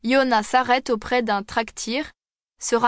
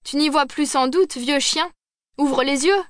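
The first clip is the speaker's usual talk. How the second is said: angry scolding; 4 semitones higher than usual. Acted. Angry passer-by scolding cabman.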